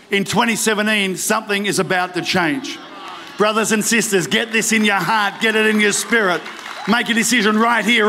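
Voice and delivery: forceful, rallying sermon delivery; preaching. Acted. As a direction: urge the congregation to decide, with conviction. Rallies the congregation.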